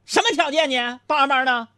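high, sharp indignant retort; angry wife. Retold or imitated. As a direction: snap back high and indignant. Wife cuts him off angrily.

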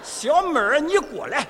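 put-on Osvaldo in a Shandong accent. Dubbing Osvaldo in Shandong dialect, calling the girl over. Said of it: "我是山东的奥斯瓦尔多".

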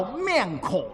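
面孔 drawn out in Suzhou dialect; Suzhou pronunciation. Shown as a demonstration. Comic teaching Suzhou word for face, 面孔 in slow Suzhou pronunciation. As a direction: stretch 面孔 slowly with Suzhou sounds. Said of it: "苏州话不说你了".

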